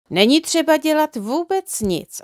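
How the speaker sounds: cheerful smile. A narrator's reading. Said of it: "s veselým úsměvem".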